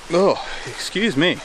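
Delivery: hiccup breaks the words; apologising mid-hiccup; suppressing hiccups. Real, not acted.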